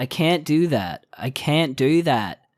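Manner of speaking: put-on American accent, American-sounding can't. Describing people who picked up American accents, mimicking how they talk, American accent. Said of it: "They have American accents".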